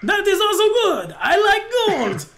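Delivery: high, gleeful innkeeper in broken English; greedy innkeeper. Acted. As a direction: relish the money in a high accented voice.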